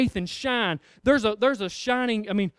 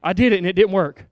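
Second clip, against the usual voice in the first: panicked demon; 6 dB louder, faster than usual. Acted. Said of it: "he says".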